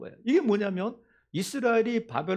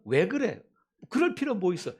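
sharp, higher challenge; irritated retort; 3 semitones higher than usual. Shown as a demonstration. Preacher mimics a dismissive reply. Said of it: "이렇게 말하지 말고".

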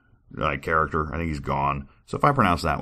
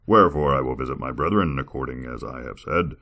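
lightly lowered, steady God voice. Acted. God warning of sorrow upon sinners, grave. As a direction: speak as God, measured and grave. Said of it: "I didn't know to do that God voice for so long".

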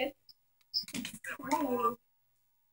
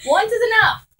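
laughing high; 8 semitones higher, 6 dB louder than usual. Real, not acted. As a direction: laugh through it. Laughing at gross taste.

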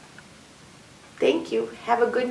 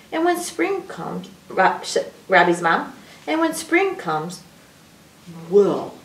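animated storybook reading with swooping pitch; sing-song story voice, stretching key words; reading to children. A narrator's reading. Adult reads a picture book to children, animated storytelling.

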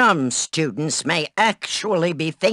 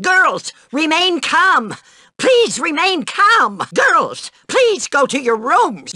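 alarmed calling out; 8 semitones higher, 3 dB louder than usual. Acted. Alarmed matron calming the girls.

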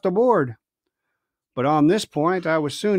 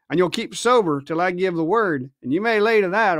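scolding pirate captain. Acted. Silver lecturing Israel.

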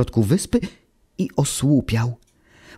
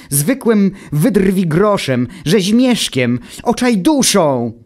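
much higher, louder insulting rant; angry tirade; 8 semitones higher, 3 dB louder than usual. Acted. Automateusz rails at Wuch's inventor, much higher furious shouting. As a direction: spit out each insult.

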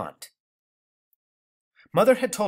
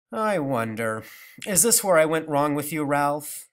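grandmother voice; 2 semitones higher, 3 dB louder than usual. Acted. Grandmother's reproachful voice.

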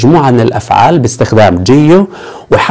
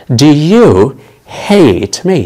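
slow model sentence; much slower than usual. Shown as a demonstration. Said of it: "هل تكرهني؟".

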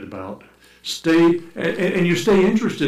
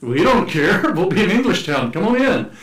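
higher, offhand mock Dutch townsfolk; carefree surrender; 5 semitones higher, 3 dB louder than usual. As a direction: give in with a cheery shrug, pitched up. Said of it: "And they said".

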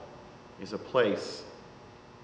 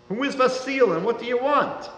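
sick widow; 9 semitones higher than usual. A narrator's reading. Sick widow questions stranger.

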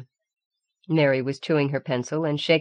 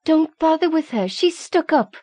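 much higher, spiteful schoolgirl voice; Mary sneering at Rowan to Kelly; hissed jibe; 12 semitones higher, 4 dB louder than usual. A narrator's reading. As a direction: hiss the insult with venom. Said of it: "Mary hissed".

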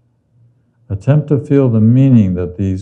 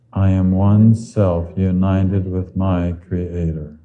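slow affirmation; slower than usual. Shown as a demonstration. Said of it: "Say with me".

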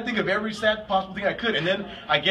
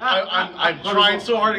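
usual speaking voice

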